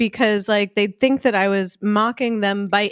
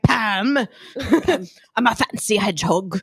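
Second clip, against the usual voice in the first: fancy hedgehog voice. Retold or imitated. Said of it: "it will be like".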